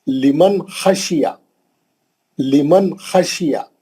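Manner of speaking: लिमन खशिया with a short n and rough kh; measured लिमन खशिया, n kept clean; clear nun. Shown as a demonstration. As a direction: end लिमन promptly before खशिया, no hum. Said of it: "नून को जल्दी पढ़ना है".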